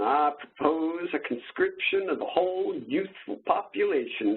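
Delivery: lightly voiced old-time orator; a hint of an old-timey speech. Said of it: "That's my old-timey voice".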